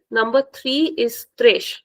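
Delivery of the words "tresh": tresh with a soft sh ending; tresh, final S said as sh. Shown as a demonstration. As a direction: end tresh with a soft sh sound. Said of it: "with a soft sound".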